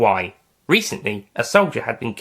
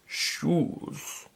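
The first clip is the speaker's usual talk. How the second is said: whispered, barely voiced single word; a barely voiced first word on waking; quiet croak; 5 semitones higher, 9 dB quieter than usual. A narrator's reading. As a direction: rasp it out weakly, just waking. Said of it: "Then the man spoke".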